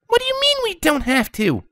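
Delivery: put-on very high, chirpy girl voice; bubbly Pinkie. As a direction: bounce the question back. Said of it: "Pinkie Pie asked".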